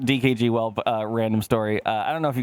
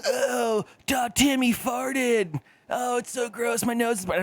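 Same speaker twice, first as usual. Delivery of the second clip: high, shouting mock kid voice; squealing schoolyard mockery, much higher; mocking middle school kids; 11 semitones higher, slower than usual. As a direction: jeer like a grossed-out seventh grader. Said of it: "A bunch of middle school people like".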